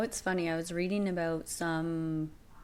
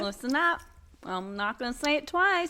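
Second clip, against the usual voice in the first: tough mob wife; 6 semitones higher than usual. Pretend.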